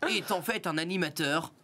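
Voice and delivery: mock investigative TV voice-over; laughing through a mock documentary intro; documentary narrator. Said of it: "tu sais faire les voix de documentaire".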